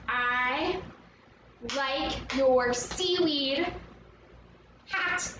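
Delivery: "I like your seaweed hat" slow, broken up; beat by beat. Shown as a demonstration. Teacher tries the movements, slowly beat by beat. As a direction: pause between beats in "I like your seaweed hat". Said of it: "So can we try".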